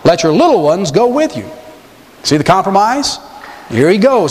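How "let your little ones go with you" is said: Pharaoh's condition. Retold or imitated. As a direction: drag out the catch with royal slyness. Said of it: "Now watch".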